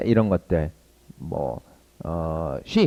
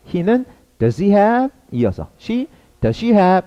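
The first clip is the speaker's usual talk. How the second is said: slow chunk drill; 8 semitones higher, much slower than usual. Shown as a demonstration. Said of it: "이렇게 속도감 있게 가는 것이 중요합니다".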